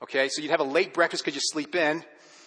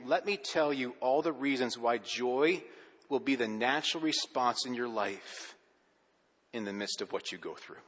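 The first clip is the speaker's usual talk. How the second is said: gentle; 3 semitones lower, 4 dB quieter than usual. Acted. Gentle reframing of the passage.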